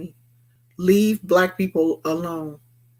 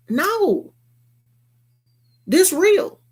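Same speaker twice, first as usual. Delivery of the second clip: emphatic no; 10 semitones higher, much slower than usual. Real, not acted. Insisting on speaking out.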